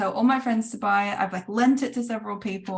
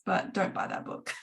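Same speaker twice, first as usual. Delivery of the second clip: hushed, secretive aside; whispered warning; 6 dB quieter than usual. Retold or imitated. A writer secretly warning a friend off a dull book, in a whisper.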